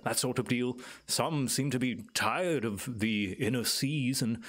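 lightly voiced island native, musing and lilting; knowing island elder. Island native tells visitors about the guardian, musing and lightly in character. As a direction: explain it as a well-spoken local guide. Game master plays Clyde.

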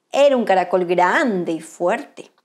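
usual speaking voice

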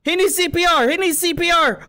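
frantic urgent calls; panicked yelling. Acted. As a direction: call out as if someone collapsed. Panicked over knocked-out friend.

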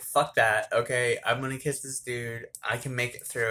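loud, defiant self-talk; psyching herself up out loud; mock bold resolve. Telling herself to kiss the guy anyway, loud and defiant. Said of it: "I was just like".

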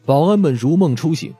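normal talking voice

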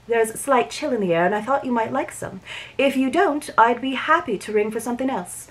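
even, unhurried reading of a romance novel; audiobook-style read-aloud of a Regency romance; story narration. A narrator's reading.

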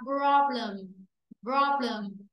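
"problem" ending in a schwa, -luhm; reduced second vowel. Shown as a demonstration. Teacher models for the class, "problem" with a schwa in the last syllable. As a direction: weaken the e of "problem" to ơ. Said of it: "chữ ơ e này sẽ đọc ra là chữ ơ".

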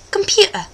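"Computer" softly in mock British; British pronunciation. Shown as a demonstration. Host shows how it is done here, British "Computer". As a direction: model "Computer" as said in Britain. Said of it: "That's how you do it here".

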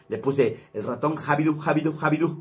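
sing-song Jabidú chant; lightly voiced cartoon mouse; mouse catchphrase. Shown as a demonstration. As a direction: call out the mouse's name playfully. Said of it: "Así se presenta el ratón Jabidú".

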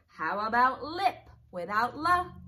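slow, careful teacher read of "hip". Shown as a demonstration. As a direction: spell it out slowly for kids. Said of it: "take out the beginning sound".

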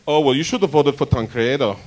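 put-on a light German accent for an old nosy neighbour; nosy German neighbour pressing with questions; a light German accent, nosy and prying; German old lady accent. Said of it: "my Liesel voice".

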